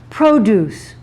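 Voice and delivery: "Produce" stressed on the first syllable; "Produce" with a strong first syllable; noun stress. Shown as a demonstration. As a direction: say "Produce" as the noun, PRO-duce. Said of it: "shift in the stressed syllable".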